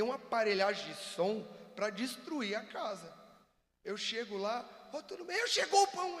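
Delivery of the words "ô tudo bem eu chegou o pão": much higher, louder wife greeting; imitating loud wife. Husband imitating his loud-talking wife Cibele, high and loud. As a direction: play the wife who always talks loud, calling out high. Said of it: "ela fala alto".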